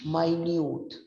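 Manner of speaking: "minute" as my-NYOOT; adjective pronunciation. Shown as a demonstration. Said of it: "उसी का एक word होता है".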